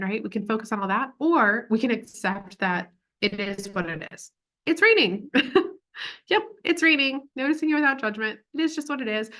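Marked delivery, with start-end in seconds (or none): 4.7-9.3 higher, breezy matter-of-fact acceptance; light acceptance. Shown as a demonstration. Coach models accepting the rain, lightly accepting. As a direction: demonstrate shrugging it off, pitched up.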